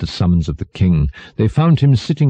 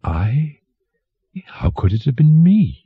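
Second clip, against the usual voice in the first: higher-pitched, innocent protest; ejaculating dwarf; 9 semitones higher than usual. A narrator's reading. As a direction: act surprised to be accused. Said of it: "merely ejaculated".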